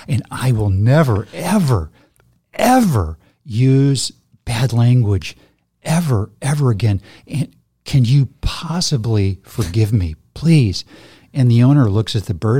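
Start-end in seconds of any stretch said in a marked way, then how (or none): 0.1-10.8 hammed-up contrite promise, leaning on each EVER; acted begging for forgiveness; mock pleading. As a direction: plead earnestly, pitch jumping on the key words. Parrot begs forgiveness in joke.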